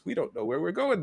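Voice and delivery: high-pitched car passenger; cartoon character. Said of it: "and one says".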